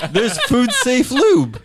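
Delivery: high, slow words through laughter; cracking up mid-sentence; laughing. Real, not acted. Laughing while defending the lube.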